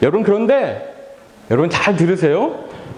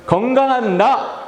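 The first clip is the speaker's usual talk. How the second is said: drawn-out, energetic call to repeat; more forceful; 3 semitones higher, slower than usual. Shown as a demonstration. Pastor leading children to repeat the title, more forceful. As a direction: put more strength into it. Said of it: "조금 더 힘있게".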